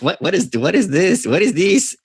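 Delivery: puzzled question in a hammed-up Mexican accent; bad Mexican accent. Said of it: "the worst Mexican fucking accent".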